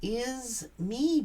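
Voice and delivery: slow, dragged-out self-pity; mock woe is me. Tarot reader mocking the self-pitying ex, slow mock lament. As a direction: moan it like a martyr. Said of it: "that's what this person is doing".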